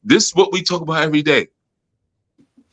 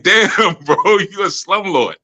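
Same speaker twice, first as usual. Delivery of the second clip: laughing tease; 7 semitones higher, slower than usual. Retold or imitated. Teasing coworker about raising rent.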